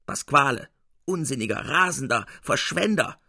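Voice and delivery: mild anger building word by word; growing angrier. Acted. Capuzzi in the audience scolding the spendthrift, growing angry. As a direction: scold harder with each insult. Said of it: "wurde immer zorniger und zorniger".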